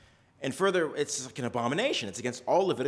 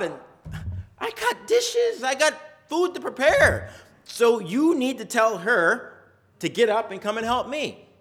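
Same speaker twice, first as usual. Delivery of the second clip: higher, louder, fed-up sister whining about the chores; exasperated Martha; 5 semitones higher, 4 dB louder than usual. Acted. Martha begging Jesus to send her sister to help, exasperated and pitched up. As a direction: complain like an overworked hostess at the end of her rope.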